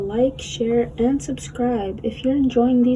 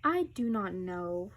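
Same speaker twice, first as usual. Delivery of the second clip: dazed; 9 semitones lower, 6 dB quieter than usual. Acted. Sick Gerald, dazed.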